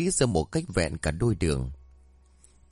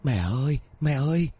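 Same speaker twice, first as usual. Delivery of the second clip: scared shout; 4 semitones higher than usual. A narrator's reading. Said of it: "sợ hãi hét lên".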